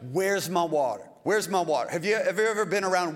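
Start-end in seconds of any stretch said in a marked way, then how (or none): 0.1-1.9 lightly imitated demanding complainer; put-on demand, repeated insistently; mock complaining. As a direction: complain insistently, half in earnest, without shouting. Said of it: "But they're complaining".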